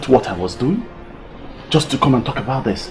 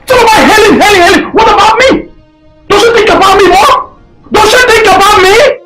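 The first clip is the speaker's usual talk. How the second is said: frustrated outburst; 6 semitones higher than usual. Acted. Son protests, pitch rising.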